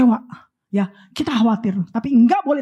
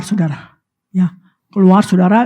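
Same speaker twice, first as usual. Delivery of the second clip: usual speaking voice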